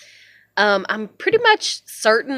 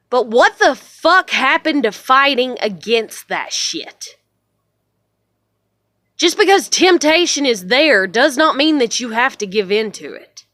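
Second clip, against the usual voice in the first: raised, indignant challenge; real exasperated anger; angry rant; 3 semitones higher, 5 dB louder than usual. Real, not acted. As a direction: demand it, loud and fired up. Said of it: "so much rage".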